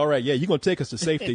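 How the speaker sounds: plain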